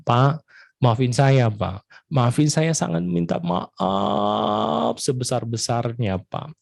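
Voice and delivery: slow, humble apology; father sincerely begs forgiveness; slow drawn-out father's apology; apologetic father. Acted. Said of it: "seorang ayah ini berkata".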